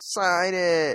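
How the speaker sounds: annoying, high, whiny nagging voice. Reenacting his own annoying heckling from a YouTube video, mock-whiny voice. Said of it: "Like whiny voice".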